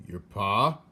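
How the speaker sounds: loud called question; shouting. A narrator's reading. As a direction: call it loud to a deaf girl. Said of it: "shouted the soldier".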